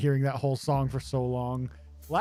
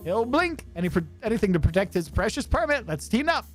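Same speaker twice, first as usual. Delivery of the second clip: higher, sly rodent whisperer; Sid voice; 5 semitones higher, faster than usual. Acted. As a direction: lean in and gossip like a sneaky kid. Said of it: "I like voicing Sid".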